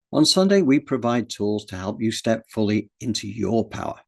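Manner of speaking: measured announcer read with key words punched; scripted presenter read. Real, not acted. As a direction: read it as a polished programme introduction, phrase by phrase. Reads a scripted show introduction.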